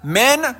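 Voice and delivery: من said as "men", without the opening a of Amen; Amen with its first sound cut off; dropped alef. Shown as a demonstration. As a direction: clip the start so only "men" is heard. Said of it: "آمنی که آلفش شنیده نشه".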